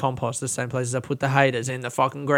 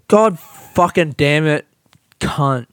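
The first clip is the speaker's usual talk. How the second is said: frustrated curse; 5 dB louder, slower than usual. Real, not acted. Mic cuts out, swearing.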